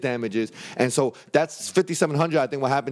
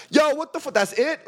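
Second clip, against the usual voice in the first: high, pitched-up stunned outrage; retold disbelief; 12 semitones higher than usual. Man reliving the abrupt court ruling, high stunned disbelief. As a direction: sound floored that it's already over.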